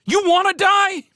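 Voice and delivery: high, loud angry yell; furious. Acted. Felix yells furiously at Showen. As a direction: yell it in fury.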